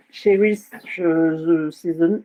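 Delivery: hesitant English with a French accent. Real, not acted. Demonstrator reading an English stamp-set name to viewers, French accent. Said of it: "Excusez-moi pour mon accent tout pourri".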